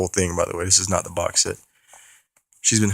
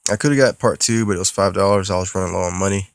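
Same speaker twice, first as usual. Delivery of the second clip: rattled off quickly; really fast. Real, not acted. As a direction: rush through it in one breath. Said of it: "I said that really fast".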